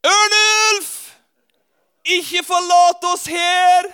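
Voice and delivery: high, loud, slow pleading cry after him; desperate call. Retold or imitated. Hen mother cries out to the departing young eagle, loud and high. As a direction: beg him not to leave, shouting high.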